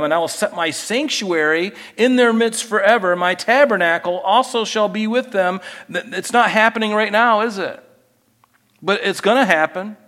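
reading the prophecy with mounting real excitement; getting excited. Real, not acted. Preacher reading prophecy to congregation, overcome with excitement. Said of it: "I'm getting so excited".

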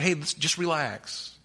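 slow, soft reassurance; calming. Real, not acted. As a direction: ease the worry right down. Soothing answer to acted fretting.

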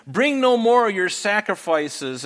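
high, loud, slow scripture rebuke; God's rebuke. Acted. God rebukes Judah, read aloud.

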